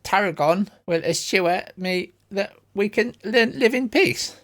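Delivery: character voice. Acted. GM voicing a character.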